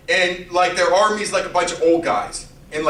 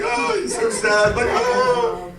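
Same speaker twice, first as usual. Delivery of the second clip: hammed-up sad oh that jumps very high; mock mourning; 13 semitones higher, slower than usual. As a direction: play a wailing mourner for laughs. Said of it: "he's just like".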